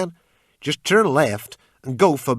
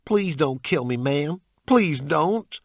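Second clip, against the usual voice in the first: high, loud desperate plea; panicked American youth pleading; begging; 8 semitones higher, 7 dB louder, slower than usual. A narrator's reading. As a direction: beg for your life at gunpoint. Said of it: "He begged".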